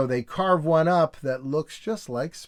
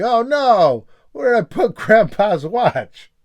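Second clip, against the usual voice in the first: high, loud mock panic; hammed-up panic over a lost watch; 6 semitones higher, 8 dB louder than usual. Goofus panics about watch.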